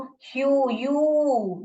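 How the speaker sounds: ह्यू, यू with a drawn-out "yoo"; teacher sounding out a long यू. Shown as a demonstration. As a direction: stretch the vowel in ह्यू and यू. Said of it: "यू करके बोल रहे हैं हम".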